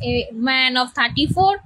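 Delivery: very slow, word by word; slow dictation. Shown as a demonstration. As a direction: spell it out for note-taking. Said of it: "তাহলে এটা লেখো".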